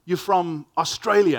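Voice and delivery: humorous questioner. Retold or imitated. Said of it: "more sort of humorously, people say".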